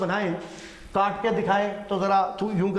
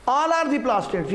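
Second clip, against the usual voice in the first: very slow, stress on are; teacher drilling the key line slowly; slow emphatic summary; 5 semitones higher, much slower than usual. Shown as a demonstration. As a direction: spell out the point slowly for the class.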